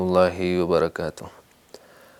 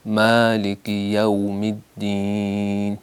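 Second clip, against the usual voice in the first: مالک یوم الدین recited very slowly with یوم kept clean; careful tajweed chant; correct slow recitation; much slower than usual. Shown as a demonstration. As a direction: model the right reading. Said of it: "یو نہیں پڑھنا".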